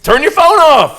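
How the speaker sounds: high, loud barked command; mock stage manager shouting the rule; yelled rule. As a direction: bark the rule at the crowd.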